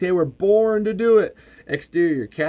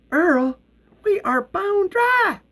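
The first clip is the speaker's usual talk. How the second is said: very high, slow and emphatic; high-pitched, drawn-out protest; exasperated; 3 dB louder, slower than usual. A narrator's reading. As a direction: spell it out in exasperation, stretching each word. Acted exasperated reply in argument.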